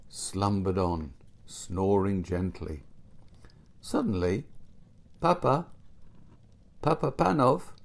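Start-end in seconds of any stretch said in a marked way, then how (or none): 5.2-7.7 higher-pitched voice calling out; a raised, summoning call; mysterious voice. A narrator's reading. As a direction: call a sleeper by name. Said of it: "said a voice in the room".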